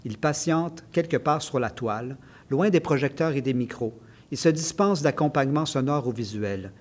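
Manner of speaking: measured, evenly phrased author's reading; literary reading aloud. Acted. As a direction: read your essay aloud, phrase by phrase. Reads a passage from the book. (lecture littéraire posée à voix haute)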